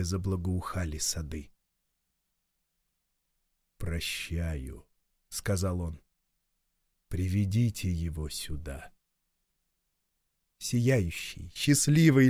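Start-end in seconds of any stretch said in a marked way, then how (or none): 3.8-4.9 low, slow, commanding voice of God; deep divine command, each word weighed; stern God voice. Acted. God grants forgiveness. 7.1-8.9 deep divine command, each word weighed; stern God voice. Acted. God orders Oro brought.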